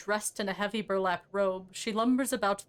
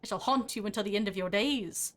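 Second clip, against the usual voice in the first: thrown corpse voice. Acted. Corpse threatens to haunt Marta for teeth-taking, thrown ghostly voice. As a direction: lightly put on a wailing dead man's voice. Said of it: "Throw my voice again".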